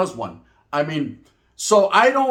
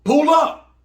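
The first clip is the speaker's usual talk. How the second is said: slang catchphrase; 9 semitones higher, 5 dB louder than usual. Shown as a demonstration. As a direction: pull up called out high and loud. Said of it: "Pull up is their favorite word to use nowadays".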